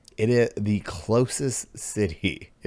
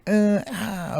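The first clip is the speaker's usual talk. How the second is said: reluctant groan; 13 semitones higher than usual. Acted. Acting out reluctance to travel.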